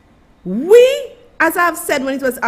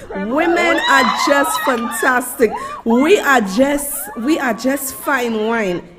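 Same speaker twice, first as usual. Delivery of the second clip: laughing shout. Real, not acted. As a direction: crow it out, laughing. Laughing praise of women.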